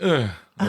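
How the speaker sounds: imitated waking-up groan; groggy groan. Woken by his brother on his birthday, mock groggy groan. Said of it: "I'm just, I'm just like".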